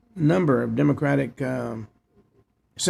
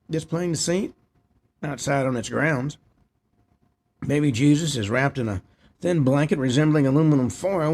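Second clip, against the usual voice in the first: reading a news report aloud; steady read-off-the-page news delivery. Real, not acted. Host reads out the nativity scene report, news read.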